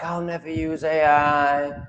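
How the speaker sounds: lightly mocking voice of a spiritual purist; mocking spiritual type. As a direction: sneer it like a smug baby soul who shuns tech. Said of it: "people in the spiritual, uh, low, like, baby souls".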